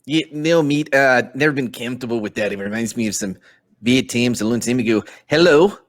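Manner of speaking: put-on shaky New Zealand accent on a gruff adventurer. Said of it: "I'm nailing this New Zealand accent".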